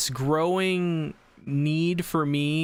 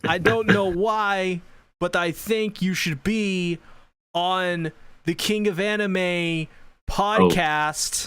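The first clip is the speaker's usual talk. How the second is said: slow, halting, odd pauses; lightly voiced celebrity drawl; Christopher Walken; 3 semitones higher, slower than usual. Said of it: "Is that Christopher Walken?".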